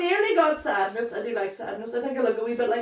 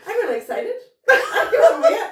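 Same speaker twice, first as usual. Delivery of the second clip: sarcastic; 10 semitones higher, 6 dB louder than usual. Acted. About checking the dog's poo.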